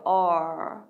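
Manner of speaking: low "R" with the tongue curled back, touching nothing; rolled-back English R. Shown as a demonstration. Teacher demonstrating the R sound, tongue pulled back on "R". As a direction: draw out "R" as the tongue rolls back. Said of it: "뒤로 그냥 굴러가시면 돼요".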